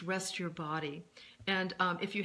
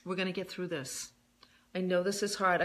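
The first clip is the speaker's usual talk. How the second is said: gentle tone. Shown as a demonstration. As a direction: talk to yourself like a loving parent. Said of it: "speaking to yourself in a very gentle tone".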